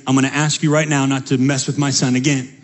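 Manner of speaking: low, firm fatherly warning; a hint of a stern dad laying down the law; stern dad calmly warning the bully who picked on his son.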